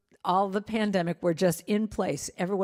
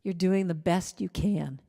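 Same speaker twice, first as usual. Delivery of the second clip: soft, tender reassurance; soothing self-talk; 2 semitones lower, 3 dB quieter than usual. Acted. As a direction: comfort your inner child gently. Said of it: "for you to stop and say".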